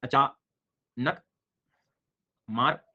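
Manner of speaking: very slow, stretched अचानक with a rise; slow teaching emphasis on अचानक; drawn-out mnemonic word. Shown as a demonstration. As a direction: stretch अचानक out for students to remember. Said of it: "उसका पूरा नाम".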